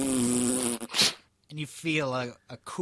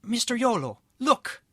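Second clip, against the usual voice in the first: high, excited character voice; urgent call; 10 semitones higher, 5 dB louder than usual. A narrator's reading. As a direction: call out to wake him, pitched up. Boy wakes Yolo in story.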